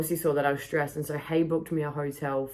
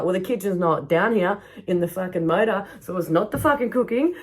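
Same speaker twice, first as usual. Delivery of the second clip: angry retort; 4 semitones higher, 4 dB louder than usual. Retold or imitated.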